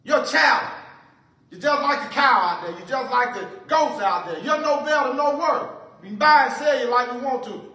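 lightly played contemptuous king; mocking Pharaoh. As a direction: sneer at their God like a tyrant. Preacher voices Pharaoh mocking God.

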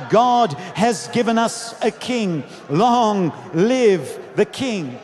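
stretched-out, forceful proclamation; crowd's shout. Retold or imitated. Crowd hails their new king, shouting. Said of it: "Others would shout".

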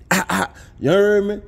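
playful New Orleans accent tag. Real, not acted. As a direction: lean into a New Orleans sign-off. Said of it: "in my New Orleans voice".

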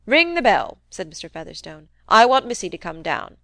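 a loud barked order from a crusty uncle; bossy old man. Acted. Old uncle orders Fred to ring for Missy, loud bossy command. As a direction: command him like a servant.

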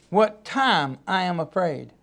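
hushed, slow reading of scripture; soft, slow repeat. Shown as a demonstration. Repeats verse softly, slowly.

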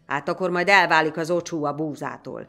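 loud, heated taunt; angry challenge. A narrator's reading. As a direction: throw down a dare to the fainthearted. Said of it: "Hegedűst erre elfutotta a méreg".

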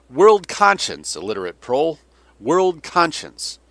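slow, loud, high mocking boom; booming scorn. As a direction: sneer it out slowly and loudly. General mocking world opinion.

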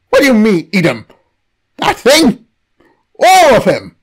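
horrified disbelief. Acted. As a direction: balk at the absurd order. Captive is horrified.

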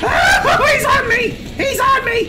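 high, hammed-up panic; panicked cries. Player chased by the enemy, hammed-up panicked cries. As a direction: cry out in a high, theatrical panic.

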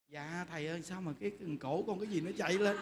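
soft, low, timid answer; meek retold reply. Follower explaining her choked throat to the monk, meek and soft. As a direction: imitate a flustered follower answering quietly.

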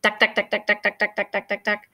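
jackhammer sound. Acted. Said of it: "It makes a loud banging sound".

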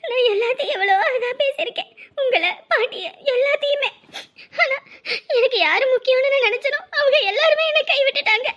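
weeping voice, slowing toward the end; tearful. Acted. Woman telling her friend she was abandoned, still tearful. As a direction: speak through tears, worn out with grief.

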